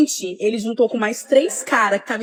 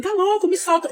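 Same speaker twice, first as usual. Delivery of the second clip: retold yell; 8 semitones higher than usual. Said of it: "Enquanto eu tava gritando".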